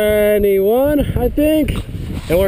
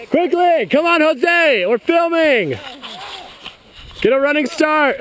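raised voice calling downhill; 6 semitones higher than usual. Real, not acted. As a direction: call out to a friend across the snow. Calling out to friend sledding.

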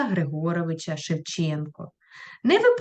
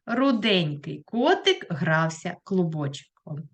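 slow, word by word for writing down; slow dictation pace; 3 semitones lower, slower than usual. Shown as a demonstration. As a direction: dictate it slowly to the class. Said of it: "ви запишете ось таким чином".

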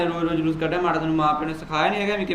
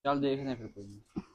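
much softer, muttered to himself; quiet mutter; 3 semitones lower, 10 dB quieter than usual. Real, not acted. Brother gives up on his mother's complaint, muttering softly. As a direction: let it drop under your breath.

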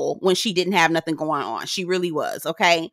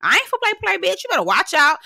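mock Russell threat; 6 semitones higher than usual. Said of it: "Russell was like".

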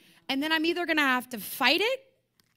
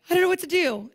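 panicked cry; 4 semitones higher, 6 dB louder, faster than usual. Acted. Acted anxious cry.

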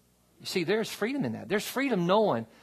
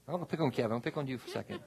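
softer, with a real laugh; laughing while teasing a friend; laughing tease; 4 dB quieter, much faster than usual. Real, not acted. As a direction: chuckle as you pick on him.

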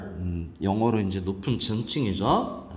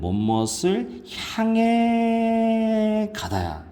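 향해 stretched out long on a high note; stress on 향해; 12 semitones higher, much slower than usual. Shown as a demonstration. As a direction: hold 향해 high and drawn out for emphasis. Teacher stresses the key meaning.

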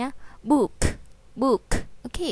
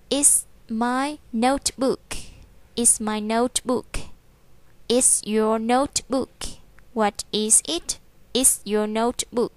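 slow drill reading; slower than usual. Shown as a demonstration. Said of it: "teacher drills sentences".

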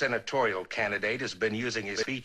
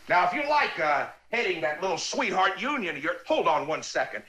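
yelling into phone; 5 semitones higher than usual. Acted. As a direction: bark it into the phone. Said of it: "as he yells into the phone at Gomez".

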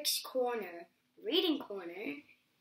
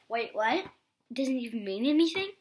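louder, fast outraged "what?"; loud disbelief; 7 dB louder than usual. Acted. Reader protesting the book's silly words aloud. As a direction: blurt it in shocked protest.

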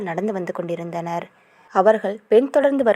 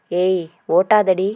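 slow, louder "stop teasing"; mock protest; 5 dB louder, slower than usual. Hero to his teasing girlfriend, slow loud mock protest. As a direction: drag it out, half annoyed.

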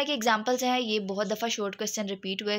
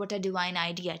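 lower, softer and gentle; polite woman's phrasing; 4 semitones lower, 4 dB quieter, much slower than usual. Shown as a demonstration. Teacher demonstrating how a woman says it, soft and polite. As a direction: say it sweetly and politely. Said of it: "बहुत ज़्यादा polite way में use करती है".

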